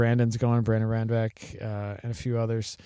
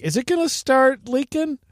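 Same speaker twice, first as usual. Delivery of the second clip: high, hammed-up fretting question; a loud, high mock panic about a leak; mock worried; 13 semitones higher, 5 dB louder than usual. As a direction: squeak it out like a nervous new owner. Mock worry about new engine.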